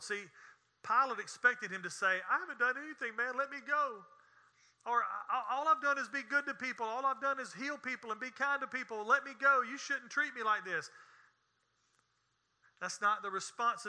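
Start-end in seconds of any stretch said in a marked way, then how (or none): 2.3-4.0 higher-pitched protest of innocence, acted out; mock pleading. Imagined plea of Jesus to Pilate. 5.0-10.9 higher-pitched, run-on protest, acted out; mock pleading. Imagined plea of Jesus to Pilate.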